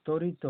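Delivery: তরিত with a firm ত and no ব sound; stressed ত, silent ব. Shown as a demonstration. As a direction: lean on the ত in তরিত, leaving ব silent. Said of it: "তটা জোর দিয়ে বলা হয়".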